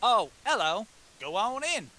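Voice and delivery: put-on hermit greeting in a drifting Southern accent; Southern-tinged accent. Hermit greets visitors at his door, Southern-tinged accent. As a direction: answer the door with a hint of Southern. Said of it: "His accent changed".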